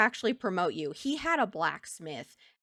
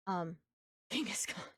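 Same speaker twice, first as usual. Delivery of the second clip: hushed whisper with a small laugh; reading a name off to the side in a whisper; 2 semitones lower, 7 dB quieter than usual. Real, not acted. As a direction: whisper the name under your breath.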